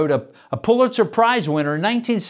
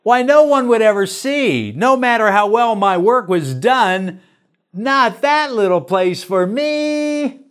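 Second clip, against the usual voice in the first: higher, louder, pleading objection; quick protest; 3 semitones higher, 3 dB louder than usual. Acted. Servant refusing the Father's small task, protesting. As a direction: push back against the task, a little aggrieved. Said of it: "I answered quickly".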